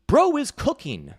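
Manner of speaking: slow, high, loud mimicry; drawn-out mocking imitation; mocking meme-speak. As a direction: parrot the meme in a dopey falsetto. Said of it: "They're so fucking cringe".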